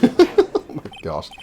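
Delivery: high, very slow amazed gasp; stunned. Real, not acted. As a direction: let it drag out in disbelief. Player reacts to the trial.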